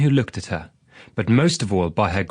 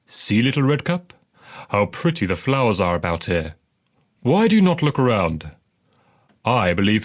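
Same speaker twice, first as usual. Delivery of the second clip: a lightly voiced coaxing wolf, quicker at the end; sly wolf. Wolf luring Little Redcap toward the flowers, lightly voiced sly coaxing. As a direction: tempt her gently, like a crafty wolf.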